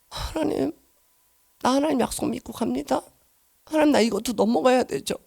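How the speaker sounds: near-silent prayer, barely voiced; hushed prayer. Retelling her breathless dawn prayer, very quiet. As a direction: breathe the prayer out softly to God.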